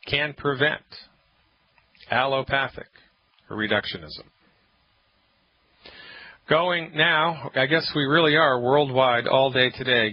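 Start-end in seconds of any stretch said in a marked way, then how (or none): 0.1-4.2 brisk welcome slowing to weighty, spaced-out phrases; radio show intro. Acted. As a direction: announce yourself, then pause portentously between phrases.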